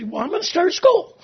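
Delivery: retold resolve, laughed out; laughing excitement. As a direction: burst out with it, laughing. Retelling his fired-up decision.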